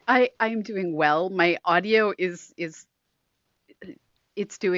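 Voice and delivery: tinny lapel mic sound; thin, tinny audio; low sample rate. Real, not acted. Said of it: "why your audio sounds a little tinny this week".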